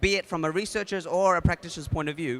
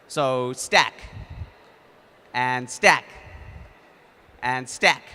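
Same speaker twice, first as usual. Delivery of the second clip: louder, rhythmic calls of stack; louder game calls, one beat each; calling commands; 3 semitones lower, 4 dB louder, much slower than usual. Shown as a demonstration. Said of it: "So when I say stack".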